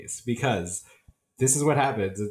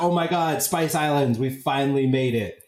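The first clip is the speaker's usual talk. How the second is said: excited relief; 4 semitones higher than usual. Retold or imitated. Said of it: "they think".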